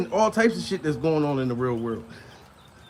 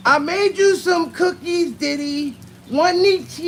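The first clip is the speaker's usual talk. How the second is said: a much higher, slow, sweet mock voice; high girly voice; 10 semitones higher, 3 dB louder, slower than usual. Transformer offering Diddy cookies in a high sweet mock voice. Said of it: "the transformer's like".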